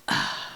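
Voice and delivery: exasperated sigh. A narrator's reading. Baby Bear exasperated at parents.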